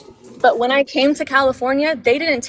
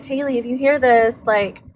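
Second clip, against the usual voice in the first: mock threat; 3 dB louder than usual. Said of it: "they were all like".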